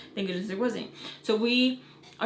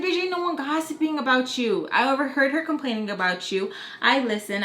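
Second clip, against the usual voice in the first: angry; 4 semitones higher than usual. Retold or imitated. Retold shouting match at daycare.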